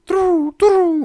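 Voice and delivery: high falsetto pigeon coo. Retold or imitated. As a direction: coo to call the gang. Bird calls its gang.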